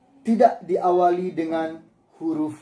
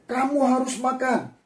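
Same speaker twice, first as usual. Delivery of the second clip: firm instruction; 9 semitones higher than usual. Shown as a demonstration. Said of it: "untuk situasi tertentu".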